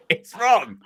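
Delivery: put-on light Bristolian accent through laughter; a hint of Bristolian, laughing; Bristolian Ian Holloway. Pundit imitating Holloway, laughing, light Bristolian accent. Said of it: "That's the one accent I can do".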